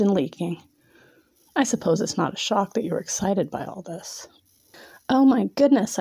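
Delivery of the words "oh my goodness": exclaiming. Acted. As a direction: exclaim it in delight. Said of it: "I exclaimed".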